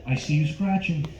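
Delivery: lightly voiced door-to-door salesman; a hint of a film tough guy, pausing between remarks; Robert De Niro. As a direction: leave gaps and tag on questioning grunts. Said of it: "my impression of Robert De Niro as a door-to-door Vagisil salesman".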